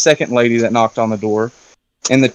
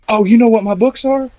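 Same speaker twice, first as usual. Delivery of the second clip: high-pitched, delighted imitation of surprise; lit up, flattered; 8 semitones higher than usual. Author to a guest who loves his books, flattered. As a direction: imitate someone lighting up at praise. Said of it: "And he lights up".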